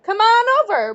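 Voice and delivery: high, loud call across the yard. Acted. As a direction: call them over cheerfully from afar. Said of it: "Aunt Fern called".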